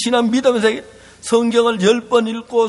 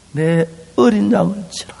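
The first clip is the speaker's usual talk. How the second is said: whispered command. Acted. Jesus commands Peter.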